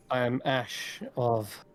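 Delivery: slow introduction left hanging after "of"; stops mid-sentence. A narrator's reading. Fire genasi introducing himself to a visitor, stopping mid-sentence. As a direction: trail "of" out slowly and leave it unfinished. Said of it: "he kind of stops mid-sentence".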